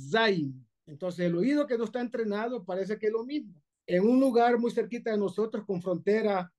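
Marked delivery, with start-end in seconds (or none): 0.1-0.7 ZAIN opened on a long voiced z; buzzed Zain. Shown as a demonstration. Teacher demonstrating the Hebrew letter, long buzzed z. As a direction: hold the buzz before "Zain". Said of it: "Esa es la".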